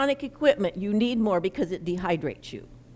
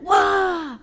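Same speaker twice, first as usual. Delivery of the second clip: higher, louder mock-angry 'Wah!'; playful fake anger, louder and higher; mock angry outburst; 9 semitones higher, 5 dB louder than usual. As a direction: ham up the angry cry. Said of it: "I got angry and I went".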